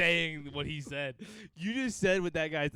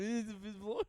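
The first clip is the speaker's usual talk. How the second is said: imitating through laughter; mock it while laughing; laughing mock impression; 6 semitones higher, 4 dB quieter than usual. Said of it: "You just went".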